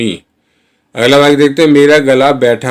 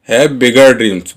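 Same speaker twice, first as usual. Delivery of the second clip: slow model sentence; much slower than usual. Shown as a demonstration. Teacher modelling the English line for Hindi learners, very slow. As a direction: say each word slowly and clearly. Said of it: "teacher repeats model sentence".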